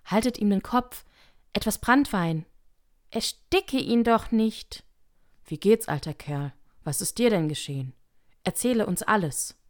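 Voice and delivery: confused voices calling. A narrator's reading. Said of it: "dann wieder verworrene Stimmen".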